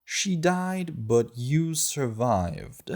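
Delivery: put-on girl dodging Astrid's question; girl evasive. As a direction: brush off the question lightly. Girl's voice answering.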